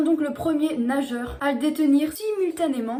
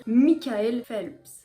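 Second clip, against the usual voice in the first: slow, careful go at an English name; attempted English accent; much slower than usual. Vlogger naming the American swimmer, attempted English accent. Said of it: "Mon accent".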